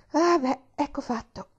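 high, slow, pleased announcement; smiling. A narrator's reading. Girl returning to the bed after the curtains, smiling. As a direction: say it through a smile, drawn out. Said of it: "disse con un bel sorriso".

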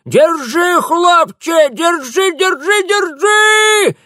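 very high, loud, slow screech; old woman screeching at the rower; drawn-out shrieking. A narrator's reading. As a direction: shriek it long and desperate. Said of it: "протяжно верещала старуха".

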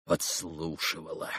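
hushed irritable mutter to himself; irritable whisper. A narrator's reading. Ivan to himself, irritable whisper. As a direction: breathe it out angrily under the breath. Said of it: "раздражительно прошептал он про себя".

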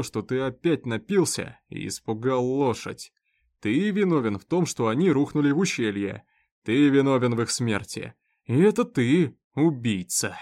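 building from plain to loud accusation; raising his voice. Acted. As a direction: climb toward a loud charge of murder. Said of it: "Он начал повышать голос".

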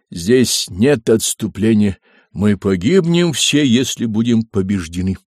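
rally the troops before battle; roaring rallying speech. Acted. Hannibal addresses troops before battle.

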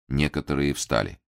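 usual speaking voice

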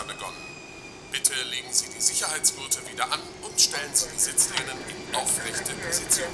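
Durchsage über Bordlautsprecher; leise, entfernte Kabinendurchsage; Flugkapitän-Durchsage. Acted. Kapitän spricht über Bordlautsprecher. (Pilotendurchsage aus dem Lautsprecher)

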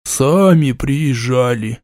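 sleepy mumble into a mug; drowsy, half-muffled into a cup; mumbled into a cup. Acted. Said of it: "сонно пробормотал в кружку".

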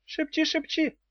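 high mocking imp voice, laughing at her. A narrator's reading. Imp laughing at the witch's whisper. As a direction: taunt her from a safe distance. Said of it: "со смехом сказал Хнык".

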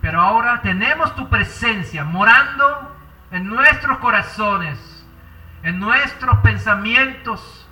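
earnest pastor's prayer, swelling and fading; fervent prayer. Acted. Pastor praying aloud for the congregation, fervent and earnest. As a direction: pour out the prayer to the Father.

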